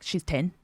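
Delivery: "tin" for thin, starting on a hard T; softly retold accusation, "tin" with a plain T; grandmother's Irish th. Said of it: "She's like".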